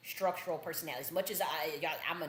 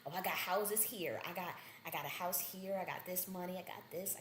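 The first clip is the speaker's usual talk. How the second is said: mock boastful suitor; 6 dB quieter than usual. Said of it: "trying to woo me with".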